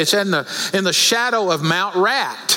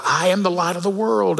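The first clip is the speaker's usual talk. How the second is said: raised, more insistent mock prompt; slightly louder prompt. Mother prompting her silent daughter from behind the curtain, slightly raised. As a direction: imitate a prompt pushed a little harder. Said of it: "She said a little louder".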